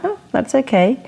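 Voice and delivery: mock-cheery high "oh, that's okay"; airy, unbothered reply; breezy brush-off. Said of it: "I'm like".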